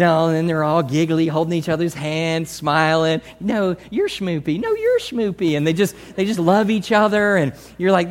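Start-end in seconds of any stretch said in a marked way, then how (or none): 3.4-4.6 put-on slow, cooing baby talk; cooing lover. 4.6-5.6 put-on higher, playful baby talk back; cooing lover.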